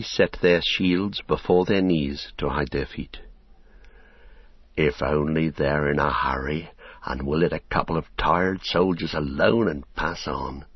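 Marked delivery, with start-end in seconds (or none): 4.7-10.6 low, hushed hopeful thought; inner thought. Acted. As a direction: think it to yourself, lower. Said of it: "he thought".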